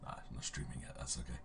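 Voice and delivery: soft, half-whispered mutter; talking low. Real, not acted. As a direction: keep it hushed and hoarse. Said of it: "are we talking low for a reason".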